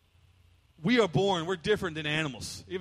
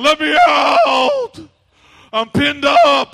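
loud, higher shouted dog plea, half laughing; pleading dog; 7 semitones higher, 14 dB louder, much slower than usual. Retold or imitated. Pastor voices the backyard dog begging to be let out, shouting. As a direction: howl it like a trapped dog begging.

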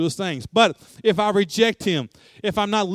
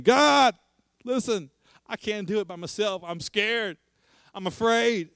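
scared plea; 5 semitones higher than usual. Acted. Jonah pleading that he's scared.

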